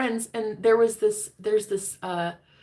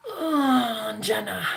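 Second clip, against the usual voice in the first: sultry, drawn-out imitation of his voice; seductive; 4 semitones higher, much slower than usual. Imitating a man saying her name seductively. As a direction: purr her name the way he did. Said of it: "like that".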